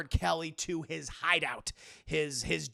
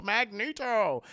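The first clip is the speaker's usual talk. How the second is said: "Magneto" slowly stretched, hammed-up; drawn-out name; 5 dB louder, slower than usual. Streamer chides the punning villain, "Magneto" slowly drawn out. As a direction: stretch every syllable of "Magneto" mockingly.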